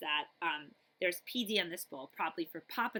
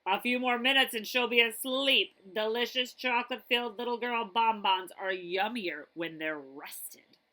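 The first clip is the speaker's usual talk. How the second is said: booming dinosaur; 6 dB louder than usual. Acted. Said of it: "a loud, booming voice".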